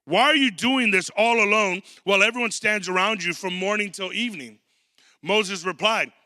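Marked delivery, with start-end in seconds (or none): 0.0-4.6 incredulous father-in-law. Retold or imitated. Jethro confronting Moses about working alone, exasperated. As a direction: call him out like an astonished in-law. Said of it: "he's like".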